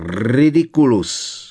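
a sob breaks the spell as it leaves her; sobbing. A narrator's reading. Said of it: "zavzlikala paní Weasleyová". (vzlykavě, protahovaně)

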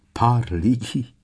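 hoarse wheeze. A narrator's reading. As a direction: wheeze it out slowly in disbelief. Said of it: "zasýpal Harry". (zasípaně, nevěřícně)

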